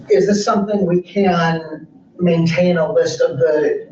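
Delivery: slow and carefully articulated; slow, clear diction. Real, not acted. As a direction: spell each word out slowly and clearly. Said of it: "enhance your diction and speak slowly and more clearly".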